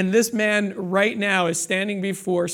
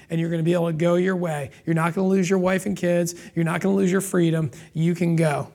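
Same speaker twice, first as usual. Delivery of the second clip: merciful master; 2 semitones lower, 4 dB quieter, faster than usual. Retold or imitated. Master releasing the servant.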